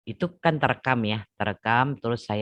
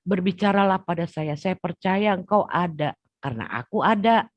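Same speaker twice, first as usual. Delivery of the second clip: tearful plea; 8 semitones higher, 5 dB louder than usual. Retold or imitated. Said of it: "Itu saya udah nangis darah".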